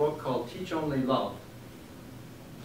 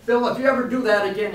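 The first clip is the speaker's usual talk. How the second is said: retold furious yell, much higher and louder, fast; angry shout; 9 semitones higher, 9 dB louder, faster than usual. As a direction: bark it at him like you're ready to fight. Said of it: "as he's in my face shouting".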